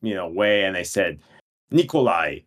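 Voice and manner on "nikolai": mildly determined Nikolai, even and firm. Retold or imitated. Giving a fake Russian name at Starbucks, mildly determined. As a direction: give the name with understated resolve. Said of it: "in a really determined, you know, way".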